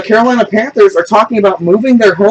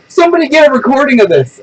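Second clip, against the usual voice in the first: high-pitched retold outcry; high mock-frantic appeal; imitated frantic girl; 8 semitones higher than usual. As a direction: mimic her frantic call to bystanders. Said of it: "Then she goes".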